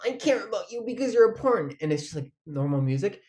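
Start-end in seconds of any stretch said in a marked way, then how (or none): 0.0-1.7 lightly voiced magical girl. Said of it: "one of the little magical girls goes".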